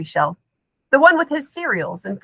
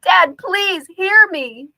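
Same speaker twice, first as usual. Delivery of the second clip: desperate plea; 9 semitones higher, 3 dB louder, slower than usual. A narrator's reading. Desperate plea to unhearing father.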